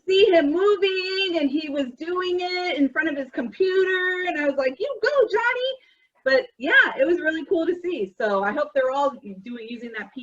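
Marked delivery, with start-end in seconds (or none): 4.8-5.7 cheering. Retold or imitated. Cheering a student, retold.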